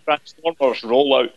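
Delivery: slow, drawn-out film-star impression; a light, joking go at a famous Scottish actor; Sean Connery as Optimus Prime. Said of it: "with Sean Connery as Optimus Prime".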